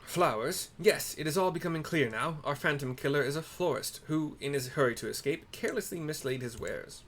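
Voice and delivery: lightly voiced grand inspector, pleased with himself; pompous detective. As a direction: play the proud sleuth, a little grand. Hildebrand deduces.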